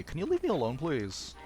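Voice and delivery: polite plea with a lilt on alone; asking nicely. Pretend. Player politely asking the game's enemy to back off, asking nicely. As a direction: ask sweetly to be left alone. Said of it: "I'll ask nicely".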